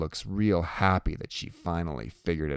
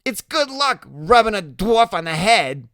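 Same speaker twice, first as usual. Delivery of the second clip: high, loud taunt; Loretta, teasing; 13 semitones higher, 8 dB louder than usual. Acted.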